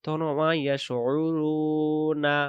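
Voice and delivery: রুনা read on with its vowel, no stop; without the pause. Shown as a demonstration. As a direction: carry the vowel through to রুনা. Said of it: "যদি এখানে দম ফেলার জায়গাটা না থাকতো".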